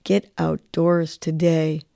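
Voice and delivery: slow, spoken affirmation. Shown as a demonstration. Host leads the daily nudge, slow affirmation. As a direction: say it slowly like a mantra. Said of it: "So let's say this".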